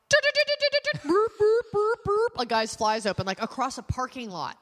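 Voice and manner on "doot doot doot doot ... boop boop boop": high, loud beeping like a radar; radar beeping noise. Retold or imitated. Mock radar beeps as she spots an open fly. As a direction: beep out like a fly detector going off. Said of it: "I'll be like".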